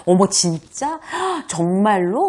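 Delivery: loud, slow gasping "정말로?"; overdone fake astonishment; exaggerated surprise. Shown as a demonstration. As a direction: gasp like it's huge news. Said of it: "막 이런 것도".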